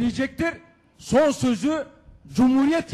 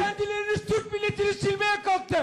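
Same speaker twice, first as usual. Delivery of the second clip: shouting at court; 7 semitones higher, 3 dB quieter than usual. Real, not acted. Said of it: "bağırma hakkınız yok".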